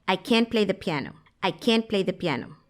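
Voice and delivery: "can't" said as "can", no final T; silent T. Shown as a demonstration. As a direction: leave the T off "can't". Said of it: "esa T que está después del apóstrofo no se pronuncia".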